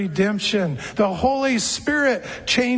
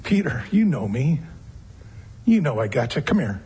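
gentle encouragement; 6 semitones lower than usual. Retold or imitated. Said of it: "I hear it as an encouragement".

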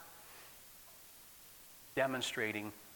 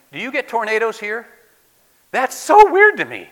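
mock disbelief; 10 semitones higher, 18 dB louder than usual.

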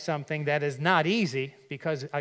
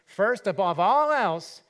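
First, above all else, slow and loud; stress on first; 4 semitones higher, 6 dB louder, slower than usual. Acted. Preacher driving home first above all, loud and slow. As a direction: press First and all hard. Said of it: "that word first there is not of a series".

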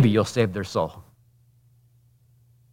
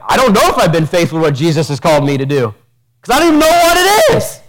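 fast, then squeaking high and louder; mock confused churchgoer; 6 semitones higher, 5 dB louder, faster than usual. Preacher voicing a church member unsure of their calling, high and flustered. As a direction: whine it like a lost, flustered believer. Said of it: "maybe you're like".

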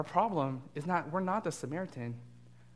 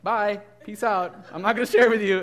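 bratty refusal; 7 semitones higher, 11 dB louder than usual. Retold or imitated. Four-year-old refusing to share.

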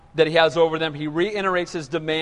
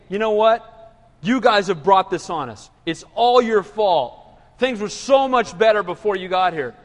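mock accusing. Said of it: "They came out accusing".

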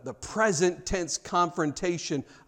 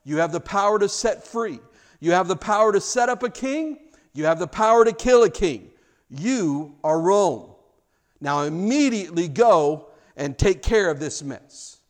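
commanding emperor; 3 semitones higher, 5 dB louder than usual. Retold or imitated. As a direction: hand over power like Caesar to his general. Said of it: "into the hand of a general and he says".

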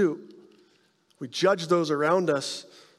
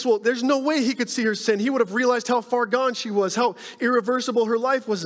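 Simon's smug thoughts; 6 semitones higher than usual. Retold or imitated. Simon privately dismissing the sinful woman, smug and higher. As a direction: scoff that she's too far gone. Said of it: "He thinks".

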